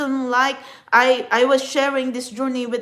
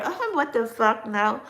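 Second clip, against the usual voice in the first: normal talking voice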